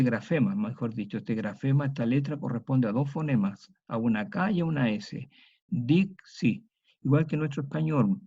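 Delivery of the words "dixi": Dixi with a clear k before the s, as DIK-si; Latin dixi. Shown as a demonstration. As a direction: show the ks in Dixi. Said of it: "una K y una S".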